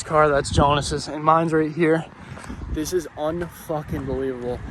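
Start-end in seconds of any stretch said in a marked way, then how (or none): 2.7-4.6 winded, quiet and breathless; out of breath. Real, not acted. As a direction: talk while catching your breath. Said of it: "how the breath I just ran".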